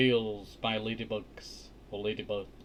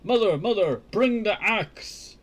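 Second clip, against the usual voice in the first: higher, loud call for help; shouting; 7 semitones higher, 4 dB louder than usual. A narrator's reading. Jack fleeing the giant calls his mother, loud shout. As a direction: yell down to mother from the beanstalk. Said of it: "shouted as loudly as he could".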